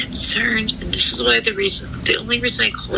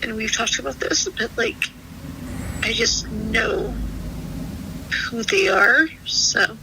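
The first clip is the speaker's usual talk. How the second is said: heavy, shaky breathing. Real, not acted. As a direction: breathe heavily between words. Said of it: "I'm breathing heavy".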